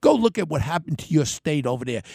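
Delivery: ordinary talk, nothing marked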